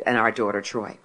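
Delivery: usual speaking voice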